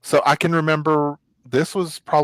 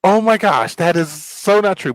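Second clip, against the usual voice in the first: embarrassed; 4 semitones higher than usual. Retold or imitated. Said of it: "I'm like".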